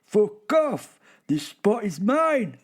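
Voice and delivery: high, loud squawking bird; angry bird voice. Acted. Bird chasing rivals off its spot, loud high screech. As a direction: shriek it like a furious little bird guarding its patch. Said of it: "Tweet, tweet, tweety".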